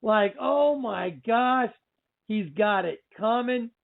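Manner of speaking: mildly re-enacted freak-out with drawn-out words. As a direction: replay your amazed reaction to the film, stretching the "oh"s. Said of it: "just freaking out, going".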